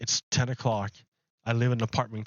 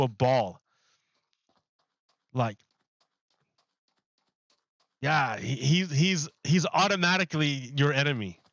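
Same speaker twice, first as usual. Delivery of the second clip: worked-up, higher-pitched rant; loud talking; 4 semitones higher than usual. Real, not acted. Streamer carried away about Putin being everybody's headache, talking loud. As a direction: raise the voice, pitched up and emphatic. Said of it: "I was shouting".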